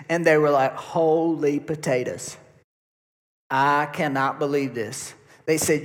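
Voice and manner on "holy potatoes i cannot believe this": amazed. Retold or imitated. Disciples back to Jesus from the streets, mildly amazed. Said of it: "came back to Jesus amazed".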